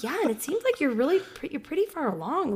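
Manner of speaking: a hint of a chirpy nurse; light nurse voice.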